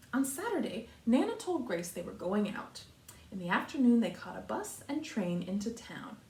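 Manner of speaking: put-on lively read-aloud for children; story reading. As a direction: read the picture book to the class. Teacher reads picture book aloud.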